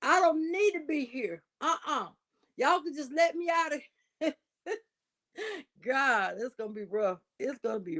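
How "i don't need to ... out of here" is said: mock patient protesting. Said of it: "She gonna say".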